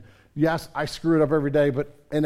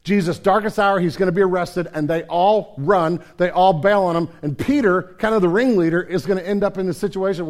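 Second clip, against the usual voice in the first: louder, driving narration; forceful preaching; 3 semitones higher, 6 dB louder than usual. Acted. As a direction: hammer each phrase home.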